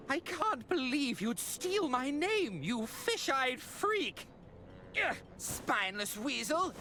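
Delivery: angry insults. Acted.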